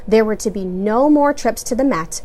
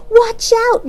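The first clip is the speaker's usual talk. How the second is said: warning; 14 semitones higher, 7 dB louder than usual. A narrator's reading. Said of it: "Mama warned".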